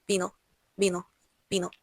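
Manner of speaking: vino with a very light b, lips barely meeting. Shown as a demonstration. Teacher showing students the gentle Spanish b. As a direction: say vino softly with a b. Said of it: "Bem leve".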